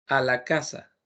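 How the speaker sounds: normal talking voice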